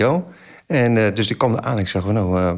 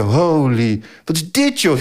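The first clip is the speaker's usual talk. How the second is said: incredulous, high-pitched questioning exclamation; acted astonishment; 5 semitones higher, slower than usual. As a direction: replay your stunned reaction to the chaos. Retells shock at cars being trashed.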